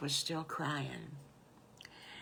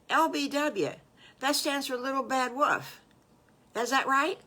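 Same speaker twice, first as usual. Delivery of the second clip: louder, higher, eager questioning; eager child character; 6 semitones higher, 7 dB louder than usual. Acted. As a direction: try out a new name excitedly. Wolf child tries out new name.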